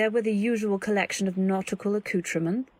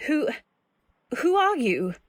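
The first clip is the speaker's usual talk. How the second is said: frightened demand; 7 semitones higher, 3 dB louder than usual. Acted. Threatening stranger with gaff hook.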